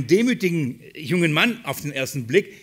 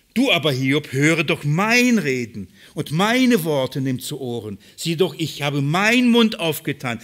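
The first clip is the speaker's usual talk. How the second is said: emphatic scripture reading; 4 dB louder, slower than usual. Acted. Preacher reading Elihu's address to Hiob, slow and loud. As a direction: read the verse slowly and loudly, with weight. Reads Elihu's words from the Bible.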